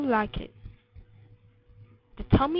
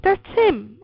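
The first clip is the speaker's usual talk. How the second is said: put-on higher, louder child's exclamation; crying out; 5 semitones higher, 5 dB louder than usual. A narrator's reading. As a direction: cry out in vindication. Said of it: "I cried".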